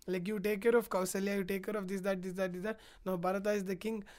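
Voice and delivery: low, running list of instructions; droning monologue. Retold or imitated. Rama leaves Sita a list of duties, droning on. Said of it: "He goes on with his monologue".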